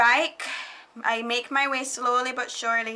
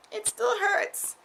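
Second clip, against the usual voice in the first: much higher, slow whine; self-pitying whine about the IV, high and slow; whiny baby voice; 12 semitones higher, slower than usual. Pretend. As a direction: drag it out like a big baby. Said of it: "needles are big".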